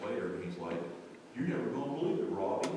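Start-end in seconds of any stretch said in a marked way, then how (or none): 1.4-2.7 lightly imitated Pittsburgh accent; a hint of Pittsburgh in a retold line. Cousin runs back with news, light Pittsburgh accent. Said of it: "Pittsburgh accent".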